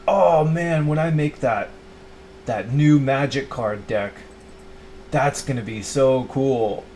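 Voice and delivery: bright, eager voice of a younger self, slowing on the deck; mock kid excitement. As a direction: gush like a kid over a new card deck. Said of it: "and I was like".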